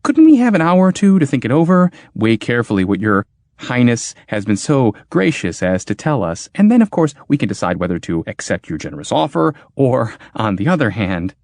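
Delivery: high, rushed anxious plea; nervous pleading. Acted.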